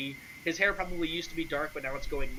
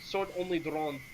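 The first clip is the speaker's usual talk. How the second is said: light, dismissive foreigner in broken Common; lightly voiced Sergei; 4 dB quieter than usual. Sergei warns an adventurer about the Count, lightly accented and dismissive.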